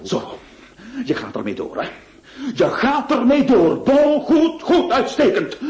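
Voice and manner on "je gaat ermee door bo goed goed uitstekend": high, laughing sarcasm; sneering mock approval. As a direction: scoff at him, voice jumping up. Notary's sudden mocking outburst.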